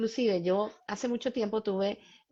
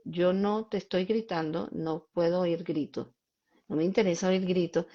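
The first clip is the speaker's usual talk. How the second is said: calm firm voice; 3 semitones lower than usual. Shown as a demonstration. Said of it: "Cuando yo hablo así".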